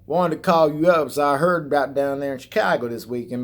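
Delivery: mock hillbilly trucker on the phone; put-on Southern hillbilly twang; hillbilly accent. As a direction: imitate a hillbilly brother calling. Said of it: "got a hillbilly accent".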